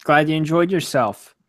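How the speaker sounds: unintentionally patronizing congratulations; politely dismissive, talking down to a friend; condescending. Real, not acted. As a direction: sound like a condescending jerk about being glad for them. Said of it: "like, condescendingly?".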